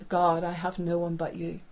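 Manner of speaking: low, hushed, understated plea to God; a touch of weary desperation, no real sobbing; tearful prayer. Acted. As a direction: pray it softly, mildly broken. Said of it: "cried and wept before the Lord".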